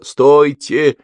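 high loud command; shout. A narrator's reading. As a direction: stop the crowd at once. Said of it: "закричал Тимофей". (Тимофей кричит толпе: стойте)

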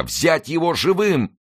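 high, stretched-out cry; shouted order. A narrator's reading. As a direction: call out to seize the enemy. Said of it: "закричали несколько англичан". (протяжный крик-приказ)

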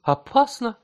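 startled. A narrator's reading. Wife's startled question.

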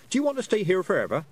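fast, high urgent plea. A narrator's reading. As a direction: hurry him with a quick plea. Tiffany urges Roland.

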